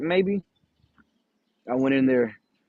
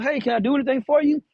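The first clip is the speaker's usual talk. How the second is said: higher, polite lady voice, lightly done; mock-friendly office lady greeting; imitating the office lady; 9 semitones higher than usual. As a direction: pitch up to play the receptionist. Dispatch lady greets other driver.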